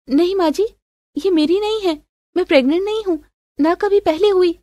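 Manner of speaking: high-pitched, anxious denial; protesting daughter-in-law. Acted. Daughter-in-law denying the pills are hers, pleading. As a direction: plead innocence in a high young-wife voice.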